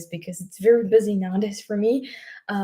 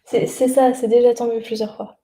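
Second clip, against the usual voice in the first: calling out; 3 semitones higher, 5 dB louder than usual. Real, not acted. Calling to mom in shower.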